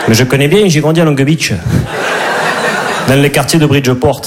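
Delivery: put-on Midi accent at an everyday pitch; southern French accent. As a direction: answer as a romantic lead from southern France. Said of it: "avec l'accent du Midi". (accent du Midi, réplique de comédie romantique)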